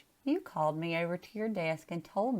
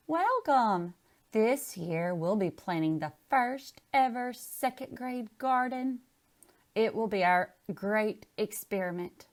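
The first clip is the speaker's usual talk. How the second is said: bright, higher welcome to the class; cheery announcement; 4 semitones higher than usual. Acted. Teacher announces the class garden, upbeat.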